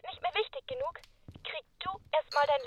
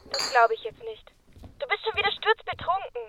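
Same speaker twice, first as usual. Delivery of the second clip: angry scolding; 4 semitones higher, 4 dB louder than usual. Acted. Girlfriend scolds drunk boyfriend.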